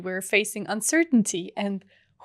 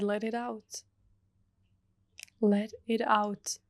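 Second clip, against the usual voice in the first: soft whisper, much softer; 5 dB quieter than usual. Retold or imitated. Teacher urging crying student to let go, whispered. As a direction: breathe it to her gently under the voice. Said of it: "And then she whispered".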